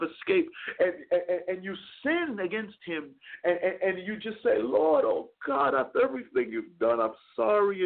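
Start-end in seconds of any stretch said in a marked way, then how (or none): 4.6-7.8 a sinner's heartfelt plea, played out; breaking-down apology. Preacher voicing a repentant sinner breaking down. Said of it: "and you just break down".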